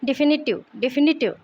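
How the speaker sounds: डिफिनिटिव said di-FIN-i-tiv; teacher's model of डिफिनिटिव, stressed on FI; stress on second syllable. Shown as a demonstration. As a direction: put the weight on FI in डिफिनिटिव. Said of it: "word stress फी पे आएगा".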